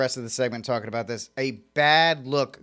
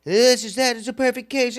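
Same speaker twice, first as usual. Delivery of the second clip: high, exasperated Trump impression; mock his outburst up high; imitating Trump; 10 semitones higher, 4 dB louder than usual. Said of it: "just kind of says, like".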